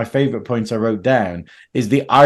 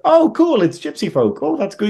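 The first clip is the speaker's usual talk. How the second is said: mock enthusiasm; 8 semitones higher than usual. Voicing modern viewers' reaction.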